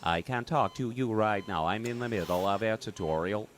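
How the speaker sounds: a hint of an injured, strained tutorial voice; broken larynx voice. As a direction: push the words out like your throat is damaged. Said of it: "why are you talking like that?".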